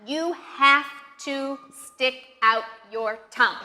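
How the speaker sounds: "have" stressed, words spaced out; emphatic instruction. Shown as a demonstration. Teacher gives learners the key rule, stressing "have". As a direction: lean on "have" and separate each word.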